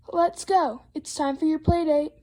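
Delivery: mild storybook holler; calling dad. Acted. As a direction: call a child to come along. Dad calling Froggy to leave.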